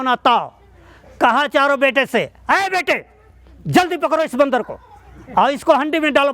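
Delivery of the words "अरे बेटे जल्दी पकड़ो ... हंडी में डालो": urgent command. Acted. Father to his four sons about the monkey, urgent command.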